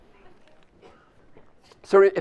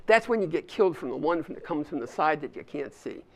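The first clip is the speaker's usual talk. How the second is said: put-on Australian accent; 4 dB quieter than usual. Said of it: "I also love to do Australian accents".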